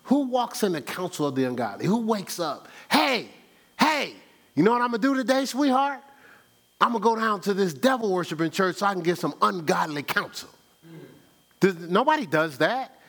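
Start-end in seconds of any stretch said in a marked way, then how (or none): 2.9-10.5 mock cheerful spouse. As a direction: chirp it like planning a nice day out.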